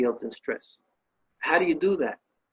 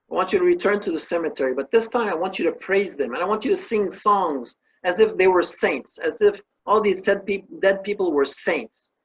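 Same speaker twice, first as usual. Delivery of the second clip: sage speaking fast and higher; quick raised sage instruction; a hint of an eager sage; 6 semitones higher than usual. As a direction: rattle off the sage's orders. Sage gives second order.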